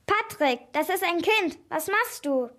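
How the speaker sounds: mildly horrified, calling him to account; appalled cry. A narrator's reading. Woman sees Patrick seize a child, appalled. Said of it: "Die Frau rief entsetzt".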